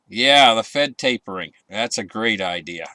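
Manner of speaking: dry sarcasm, mock approval; sarcastic. Real, not acted. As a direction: say it as if you agree, meaning the opposite. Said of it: "I'm being very sarcastic".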